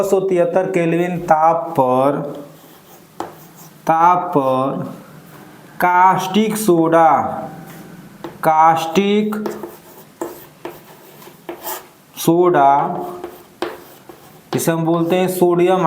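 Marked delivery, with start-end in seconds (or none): 3.9-12.7 word by word with pauses; measured read-out for note-takers. Real, not acted. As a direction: dictate it in small pieces. Dictating the reagent for writing.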